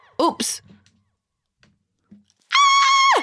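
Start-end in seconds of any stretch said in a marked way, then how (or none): 2.5-3.2 very high, wild shrieking and screaming. Reacting to a surprising stream count: screaming. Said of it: "I screamed into the microphone".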